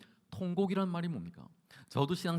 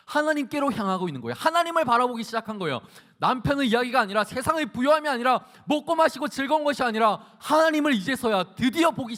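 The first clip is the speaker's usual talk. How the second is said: loud, raised-pitch sermon delivery; forceful preaching; 8 semitones higher, 9 dB louder than usual. Acted. Preacher urging listeners to look to God, forceful preaching. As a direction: drive each phrase home to the congregation.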